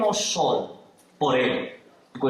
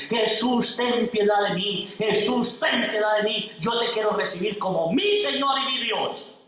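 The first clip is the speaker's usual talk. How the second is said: higher, pleading cry for mercy; tearful pleading; 5 semitones higher than usual. Acted. Kidnapper on his knees begs Jesus, tearful higher pleading. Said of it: "llorando y suplicándole a Jesús".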